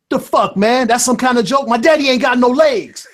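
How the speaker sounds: Tony acting offended; mock serious offense. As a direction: play it straight-faced offended, voice up. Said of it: "Tony got real serious".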